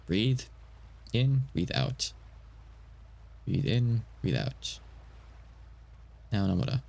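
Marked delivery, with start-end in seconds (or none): 0.0-4.8 drawn-out, slow breathing instruction; slow guided breath count; slow breathing cue. Shown as a demonstration. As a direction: stretch it out like a breathing coach. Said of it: "Just do it".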